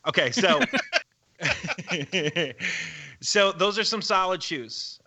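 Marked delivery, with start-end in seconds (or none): 1.4-3.0 nervous laugh. Real, not acted. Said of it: "that's a very nervous laugh".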